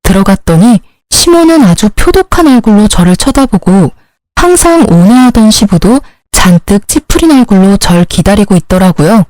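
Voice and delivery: ordinary delivery, nothing marked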